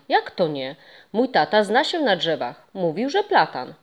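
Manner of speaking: lightly voiced boy, objecting; protesting boy. Boy interrupting the ghost in protest, lightly voiced. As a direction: defend his dad's word.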